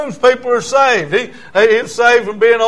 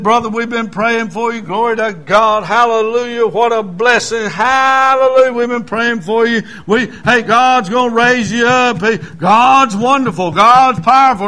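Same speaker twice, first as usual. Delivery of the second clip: imitating John; 2 semitones higher, 4 dB louder than usual. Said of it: "He went on for about thirty minutes like that".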